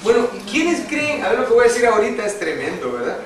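loud, rising sermon voice, stretching key words; preaching at full force. Acted. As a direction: preach it out to the whole church. Predicación con fuerza. (predicando a todo pulmón)

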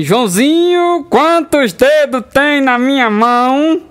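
drawn-out questioning teacher; slow teacher voice. Acted. Teacher asks slowly.

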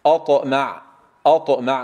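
أطمع with light first vowel and heavy bounced ط; careful model of أطمع, no breath on the ط; light hamza, strong taa. Shown as a demonstration. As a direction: demonstrate أطمع, pressing the emphatic t firmly. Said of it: "نرقق الهمزة وننتبه إلى الطاء".

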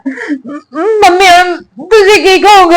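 tearful plea, catching breath; crying. Acted. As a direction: beg mum through sobs. Daughter crying asks mother. (ਰੋਂਦੀ ਹੋਈ ਤਰਲਾ)

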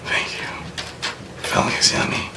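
creepy whisper. Acted. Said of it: "really creepily".

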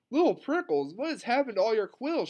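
high, alarmed question; trembling voice. A narrator's reading. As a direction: gasp it out as a shocked teacher. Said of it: "she asked with a trembling voice".

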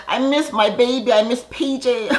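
high, laughing mock whine for her baby; mock Portia. Vlogger imitating Portia missing her baby, laughing mock whine. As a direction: play her up as a giggling, pining mom.

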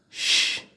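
"Ch" 를 목소리 없이 쉬익 소리로; ch sound alone. Shown as a demonstration. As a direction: hiss "Ch" unvoiced like shh.

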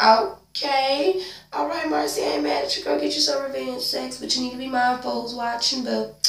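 put-on high, playful girl-talk to a character; high, cheeky approval with a warning; sassy teasing. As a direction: tease her in a high, knowing voice. Teasing Marcy on screen.

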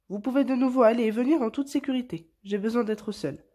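cri plus haut et plus fort; renvoie-les avec force, à bout; chasse ses invités. A narrator's reading. (Wamba congédie bruyamment ses invités)

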